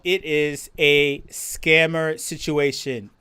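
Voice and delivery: slow, low drawn-out emphasis. Real, not acted. Streamer warning chat slowly and heavily. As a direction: spell out It is a scammer situation slowly.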